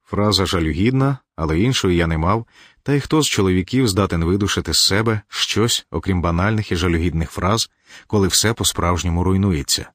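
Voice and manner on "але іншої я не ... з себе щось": usual speaking voice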